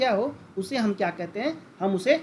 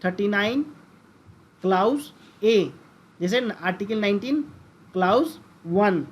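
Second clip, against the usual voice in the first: slow clear reading. Shown as a demonstration. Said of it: "दोनों का पढ़ने का तरीका अलग है".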